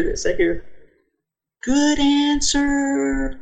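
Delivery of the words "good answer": amused divine voice. Retold or imitated. Voice heard while falling back.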